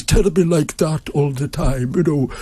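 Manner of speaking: a light posh Belfast lilt, slow and high; mildly imitating a posh Belfast uncle; posh Belfast accent. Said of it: "had that posh Belfast accent".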